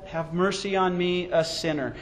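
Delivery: quietly voiced sinner's plea; humble plea. Sinner turning to the Lord, humble plea. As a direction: retell a soft, humble plea for mercy. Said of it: "turned to the Lord and said".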